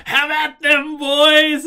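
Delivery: very high, loud foppish battle cry. Retold or imitated. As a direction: screech it like a silly fop. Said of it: "Foppish, super high pitched".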